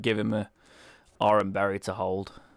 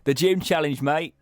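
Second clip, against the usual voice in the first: higher-pitched put-on Cockney voice; mock Cockney accent; 5 semitones higher, 3 dB louder than usual. Streamer imitating Hop for stereotyped Britain, mock Cockney. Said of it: "the all, like, Cockney accent".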